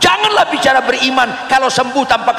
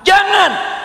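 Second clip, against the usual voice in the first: emphatic warning; 11 semitones higher than usual. Real, not acted. Preacher's climactic warning.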